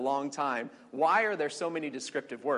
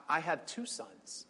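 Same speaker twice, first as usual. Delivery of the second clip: quiet protest; 6 dB quieter, slower than usual. Acted. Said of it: "Abraham said to God".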